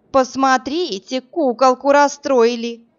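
slow, sneering stretched-out jeer; mocking drawl. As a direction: drag it out to mock her. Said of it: "издевательски протянула гадина".

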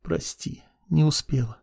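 breathy, fading whisper; weak whisper. A narrator's reading. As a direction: whisper it with the last strength. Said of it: "еле слышно прошептала она".

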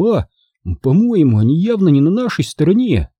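put-on high-pitched boy, hurriedly reassuring his mother; animated young son; boy Charlie explaining. A narrator's reading.

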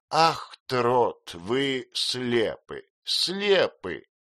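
aunt mocking a kind fool; old aunt voice. A narrator's reading. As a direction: play the aunt, half amused. Aunt repeats.

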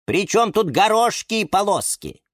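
high, mildly exasperated voice; со вздохом. A narrator's reading. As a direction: sigh at their missing the point. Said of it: "вздохнул Лимон Филимон". (с лёгким вздохом досады)

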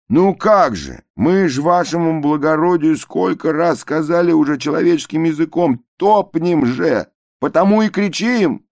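high, loud, exasperated; indignant passengers. A narrator's reading. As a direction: plead in outrage. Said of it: "passengers answer officer". (возмущённые пассажиры)

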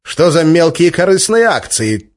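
high, loud angry rebuke; angry scolding. Acted. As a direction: tear into him. Boss scolding after bark.

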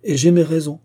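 emphatic insistence. A narrator's reading. Thornhill insists on his reasons.

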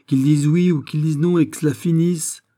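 high, loud, impatient demand; exasperated exclamation. A narrator's reading. Miss Stuart demanding a yes or no, exasperated. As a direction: cry out to get it over with. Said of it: "s'écria Miss Stuart".

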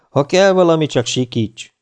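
mildly sympathetic, starting high then easing down. A narrator's reading. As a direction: offer help with fellow feeling. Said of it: "mondta együttérzően". (együttérző, biztató hang)

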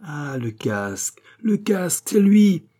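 hushed start bursting into a high cry; acted revelation, slow then explosive; indignant realisation. A narrator's reading. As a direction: let sudden recognition build to a shout. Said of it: "illumination subite et de généreuse indignation".

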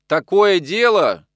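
slow, loud emphatic exclamation; exclaiming. A narrator's reading. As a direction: urge it as obvious. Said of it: "воскликнул Яков". (громко, с нажимом воскликнуть)

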